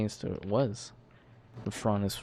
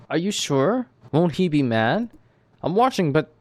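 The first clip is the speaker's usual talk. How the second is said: loud, higher voice on the mic; booming over the headset; too loud; 6 semitones higher, 6 dB louder than usual. Acted. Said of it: "man, he talks really loud".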